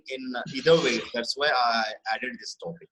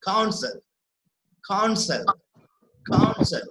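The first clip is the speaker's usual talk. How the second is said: "counsel" with its second syllable stressed; 5 semitones higher, 4 dB louder, slower than usual. Shown as a demonstration. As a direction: demonstrate "counsel" slowly for a class, weight on -sel. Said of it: "if you observe the correct pronunciation".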